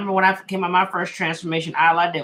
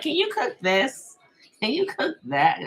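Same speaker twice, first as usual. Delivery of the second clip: put-on begging boyfriend; 8 semitones higher, slower than usual. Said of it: "I'd be like".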